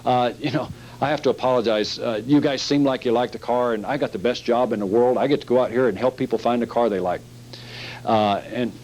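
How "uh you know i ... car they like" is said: easy, apologetic salesman backing off; apology close. Shown as a demonstration. Salesman apologizing to the customer to defuse tension, gently. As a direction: soothe them and apologize lightly. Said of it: "Back up quick".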